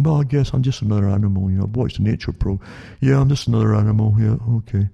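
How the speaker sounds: quick, lightly voiced mimicry of someone giving in; mock gullible believer. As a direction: play someone who has bought the idea. Voices people who believe they're animals.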